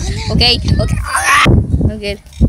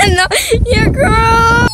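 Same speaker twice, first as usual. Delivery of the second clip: shocked laughter; 5 semitones higher, slower than usual. Real, not acted. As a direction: laugh hard, then shout in disgust. Friend's character looks gross.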